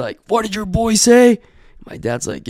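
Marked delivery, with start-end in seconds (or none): 0.3-1.4 higher, slow imitated demand; mock indignant demand. Guy pulling up to the house, mock indignant demand. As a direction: lightly act out an offended man. Retold man confronting the dad.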